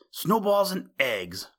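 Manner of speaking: high, sharp exclamation; the owl exclaiming in a rage; angry mutter. A narrator's reading. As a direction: spit it out in a temper. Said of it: "muttered old Barney".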